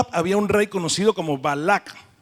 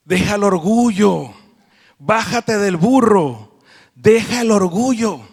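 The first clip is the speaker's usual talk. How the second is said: emphatic preaching; 2 semitones higher, 5 dB louder, slower than usual. Acted. Preacher urging the phrase emphatically.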